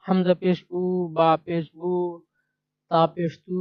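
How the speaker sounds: name each letter with পেশ, then sound it: উ, বু, তু; measured spelling drill ending each unit on a short u, as in বু. Shown as a demonstration. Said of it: "পেশ দিয়ে আরবি হরফের উচ্চারণ".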